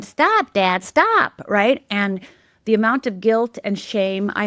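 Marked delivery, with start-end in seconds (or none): 0.0-1.4 high, louder re-enacted cry to stop; urgent mock shout, pitch jumping up; retold plea. Helpless child begging father, retold urgent cry. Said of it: "I just stood there going".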